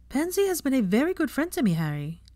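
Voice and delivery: no-nonsense tone. A narrator's reading. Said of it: "she said in a no-nonsense tone".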